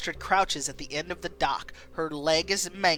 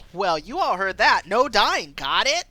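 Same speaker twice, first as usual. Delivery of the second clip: loud, upbeat rally; rallying call; 3 semitones higher, 7 dB louder than usual. Acted. Leader rallying the others, loud and upbeat. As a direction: rouse the team.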